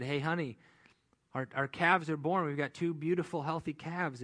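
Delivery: bursting in with happy news about the calves; excited farmer. Retold or imitated. Farmer tells his wife excitedly about newborn calves.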